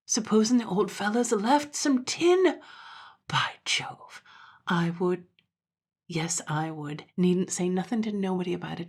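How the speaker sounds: excited dandy thinking aloud; scheming dandy. Acted. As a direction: muse in starts and pauses, lifting on the hope. Dandy muses on inheritance.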